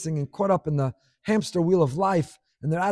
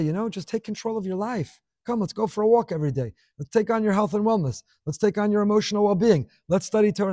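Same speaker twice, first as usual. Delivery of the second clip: higher-pitched voice of a well-meaning advisor; upbeat coaxing; 4 semitones higher than usual. Acted. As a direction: coax lightly, pitched up, like cheering someone on. Well-meaning advisor urging a despondent person.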